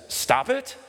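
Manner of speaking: high, rising incredulous question; stunned client's high-pitched question; shocked disbelief. Retold or imitated. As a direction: echo it back in mock shock. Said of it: "looks in shock and horror".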